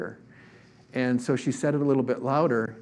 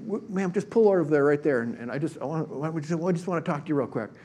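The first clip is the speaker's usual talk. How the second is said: higher-pitched, insistent plea to pull over; bold urging; 4 semitones higher than usual. Retold or imitated. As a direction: wave her over with eager urgency. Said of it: "Steve is so bold".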